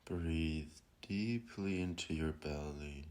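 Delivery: calm, unhurried meditation guide; guided meditation. Acted. Guiding listeners to breathe and settle, calm meditation voice. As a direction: ease them into stillness with long pauses.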